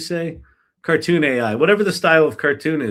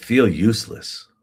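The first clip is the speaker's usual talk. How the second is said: put-on deep, breathy voice, lower; 5 semitones lower than usual. Retelling what a cabinet maker said in a workshop: imitating a deep, breathy voice. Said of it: "in this kind of deep and breathy kind of voice".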